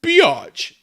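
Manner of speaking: high, loud, slow hammed-up tirade; furious shout. A narrator's reading. Draco hurls insults at Ebony in a furious shout. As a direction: spit the insults out in a mock rage.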